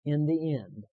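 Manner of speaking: firm line for repeating; leading a recitation. Shown as a demonstration. Preacher asking the congregation to repeat with him, leading firmly. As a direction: give it out for them to repeat. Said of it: "And then repeat with me".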